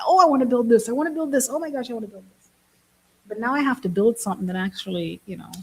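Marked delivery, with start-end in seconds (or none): 0.1-2.5 higher, gushing, speeding up at the end; mock eager builder. Mocking other builders online, gushing higher and faster. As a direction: parody breathless app-builder enthusiasm. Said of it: "It's like".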